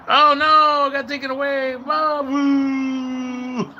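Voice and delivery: high, loud dismayed oh no; real letdown at losing a like; whiny oh boo; disappointed. Real, not acted. Lost a like on stream.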